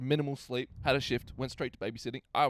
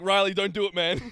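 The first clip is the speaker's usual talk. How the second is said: put-on pleading kid voice; 6 semitones higher, 9 dB louder than usual.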